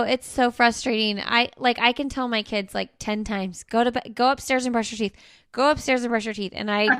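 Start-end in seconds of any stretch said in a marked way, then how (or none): 3.6-6.5 even, patient reminder; calm normal tone. Retold or imitated. Mom repeating a chore to her kids, calm and patient. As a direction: keep it calm and patient, no edge. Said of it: "like, calm, normal tone".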